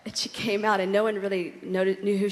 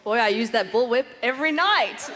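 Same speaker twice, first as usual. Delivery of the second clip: laughing; 4 semitones higher, 5 dB louder than usual. Real, not acted. Joking answer with laugh.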